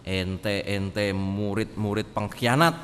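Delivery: slow, scornful "murid-murid pengkhianat"; scornful accusation. Retold or imitated. Imagined vengeful Jesus scolding traitor disciples, slow. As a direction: drag out the insult. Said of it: "lalu kemudian ngomong".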